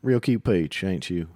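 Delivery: light Georgia sweet-talk drawl; Georgia accent. Shown as a demonstration. Co-host demonstrating Georgia flirting, light Georgia accent. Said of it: "I don't know what Georgia's like".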